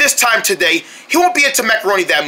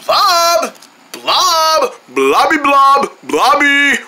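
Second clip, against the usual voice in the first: yelling across the room; 4 semitones higher, much slower than usual. Acted. Calling friend through the house.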